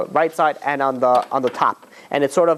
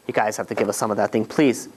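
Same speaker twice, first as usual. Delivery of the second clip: hungry begging; 5 semitones lower, 3 dB quieter than usual. Retold or imitated. Drooling Egyptian begs for meat.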